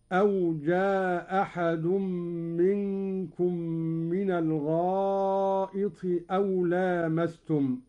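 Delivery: جاء أحد with one hamza dropped and the a drawn long; Qalun reading, long vowel. Shown as a demonstration. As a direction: merge جاء أحد into ja-ahad, stretching the vowel. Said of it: "بإسقاط الهمزة الأولى ... هكذا". (جاء أحد بإسقاط الهمزة مع المد)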